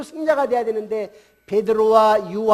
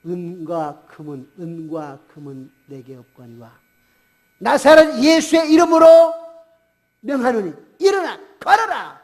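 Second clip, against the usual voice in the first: Peter; 4 semitones lower, 7 dB louder than usual. Acted. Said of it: "베드로가 뭐냐면은".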